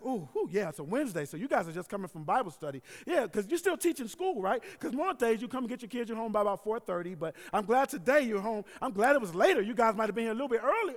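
loud, chattering old-lady impression. Old neighbor reciting the pastor's schedule, old lady voice. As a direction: rattle off details like a nosy elderly neighbor. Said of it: "so it's my old lady voice".

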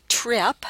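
"trip" drawn into tree-ap; diphthongized trap vowel. Shown as a demonstration. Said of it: "in fact they diphthongize".

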